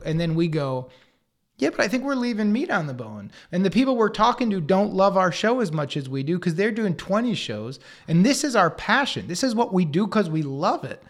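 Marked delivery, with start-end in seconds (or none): 1.6-11.0 impassioned argument, building in force; worked-up creative fighting the note; getting hot. Acted. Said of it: "I'm getting hot here".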